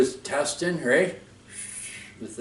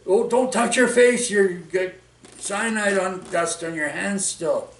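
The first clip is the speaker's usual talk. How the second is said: urgent medic warning; 6 semitones higher than usual. Retold or imitated. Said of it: "And they said".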